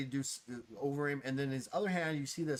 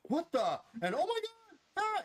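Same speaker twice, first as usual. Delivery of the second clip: high-pitched mock panic, not loud; mock screaming; 4 dB louder than usual. Townsfolk as you tear down the street, mock screams. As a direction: squeal like a startled bystander. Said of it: "and screams as you're".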